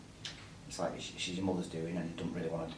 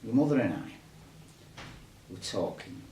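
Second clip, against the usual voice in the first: bad acting. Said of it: "Don't worry, excuse mine".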